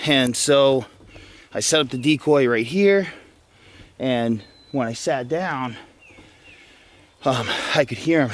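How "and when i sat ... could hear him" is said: out of breath. Real, not acted. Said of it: "Sorry, I'm out of breath a little bit".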